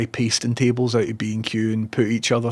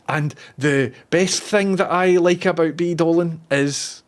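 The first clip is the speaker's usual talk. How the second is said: mock announcer; 6 semitones higher, slower than usual.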